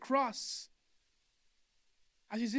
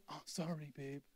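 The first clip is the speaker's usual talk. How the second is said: quick offhand apology, softer; husband brushing off his wife with a careless sorry; dismissive sorry; 6 semitones lower, 12 dB quieter than usual. Shown as a demonstration. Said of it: "there's difference between saying".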